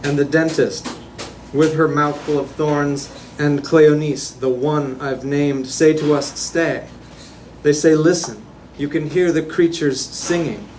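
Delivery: incantatory list-like poem recital; poetry reading. Acted. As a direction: declaim each phrase evenly, firmly projected. Reads own poem aloud.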